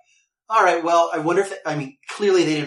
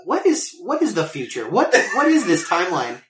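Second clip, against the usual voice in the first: baffled disbelief; 4 semitones higher, 4 dB louder than usual. Retold or imitated. Player rubbing a cereal box on a console, baffled. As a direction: pitch jumps up, then incredulous questioning. Acted bewilderment at absurd moment.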